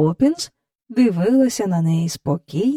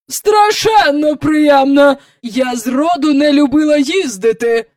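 sour sarcasm; 7 semitones higher, 6 dB louder than usual. A narrator's reading. Visitor answering about her journey, sour. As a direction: snap back with heavy irony.

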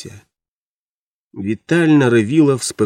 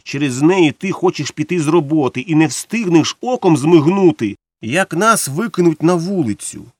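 higher-pitched, mildly angry protest; agitated complaint; 5 semitones higher than usual. Acted. Wife blames the woman for risking husband's job, agitated complaint. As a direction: let the reproach lift in pitch. Wife's angry outburst about losing everything.

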